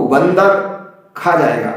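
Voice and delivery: बंदर joined as one word, short pause, खा जाएगा; wrongly joined बंदर, set off from खा; misread as बंदर. Shown as a demonstration. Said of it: "ऐसा हो गया".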